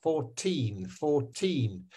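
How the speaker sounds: put-on fourteen twice, teen long and falling; four-TEEN, unhurried repeat; stress on second syllable. Shown as a demonstration. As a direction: gently model "fourteen", weight on the teen. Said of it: "is fourteen like that".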